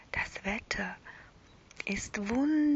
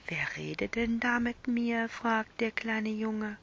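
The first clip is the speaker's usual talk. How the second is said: whispered bedtime story. A narrator's reading. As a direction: whisper it like lulling a child to sleep.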